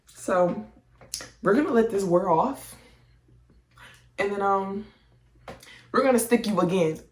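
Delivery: a hint of a brisk nurse talking to her patient; nurse explaining. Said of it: "She's like".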